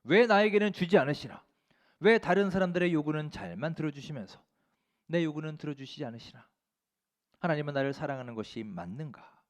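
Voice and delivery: a touch of aggrieved pleading; resentful prayer. Acted. Preacher voices a worshipper's grumbling prayer to God, mildly resentful. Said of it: "원망과 불평이 가득한 기도".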